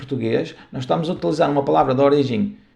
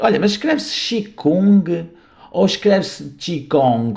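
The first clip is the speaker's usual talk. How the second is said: slow, higher mock student question; imitating a puzzled student; 4 semitones higher, slower than usual. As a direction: play a curious student asking, lightly. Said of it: "outra pergunta que surge muito". (imitando um aluno confuso)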